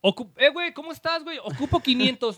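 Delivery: butter him up, pitch it high and sweet; sweet-talking borrower. Retold or imitated. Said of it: "no te hablan así de huevos".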